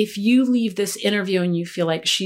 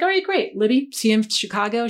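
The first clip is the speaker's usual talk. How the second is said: excited; 3 semitones higher than usual. Retold or imitated. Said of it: "And she was like".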